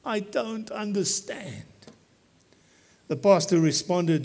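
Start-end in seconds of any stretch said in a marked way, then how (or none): 0.0-1.7 soft, slow mutter under the breath; a slow confused mutter. Retold or imitated. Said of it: "The young man muttered".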